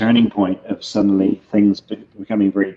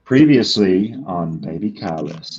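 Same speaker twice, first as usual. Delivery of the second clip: trailer read alt; 3 semitones lower than usual. Shown as a demonstration. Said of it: "as an alt just one time".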